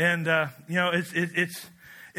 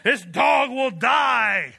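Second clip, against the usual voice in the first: high, loud whoops, slowing on the end; David shouting, sure the throne is his; fired-up shout; 7 semitones higher, 4 dB louder than usual. Retold or imitated. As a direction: yell it like you just won. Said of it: "And he's like".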